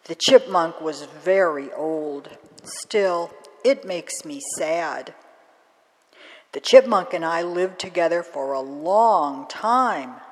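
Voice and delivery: put-on gentle, grieving old crone; a hint of a sad old crone. Crone sharing grief with the girl, lightly voiced sad old woman.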